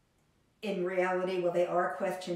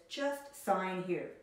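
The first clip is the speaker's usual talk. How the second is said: smooth salesman; much slower than usual. Retold or imitated. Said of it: "a salesman says".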